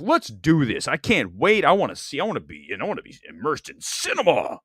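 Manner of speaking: mock excited fan; imitating excited anticipation. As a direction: act the hyped moviegoer before the film. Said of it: "you're like".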